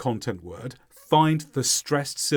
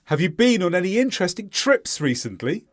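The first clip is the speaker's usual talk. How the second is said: higher question, "recently" going up at the end; rising question ending; 4 semitones higher than usual. Shown as a demonstration. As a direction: stress "been", "trips", lift "recently". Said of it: "Listen to me, then repeat".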